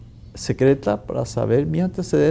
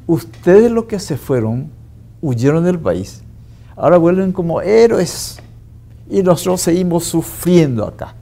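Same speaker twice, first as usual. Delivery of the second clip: retold angry reproach; 3 semitones higher, 4 dB louder than usual. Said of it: "una mirada de odio, rabia".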